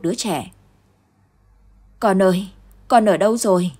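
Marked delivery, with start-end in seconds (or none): 2.0-3.7 loud anguished wail; father wailing for his son; wailing cry. Acted. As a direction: call out to the lost child in grief. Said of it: "Nghe tiếng Gia Huy gào khóc".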